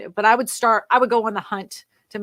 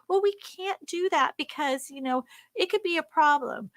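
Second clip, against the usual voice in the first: mock excuse; 5 semitones higher than usual. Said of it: "some roadblock that says".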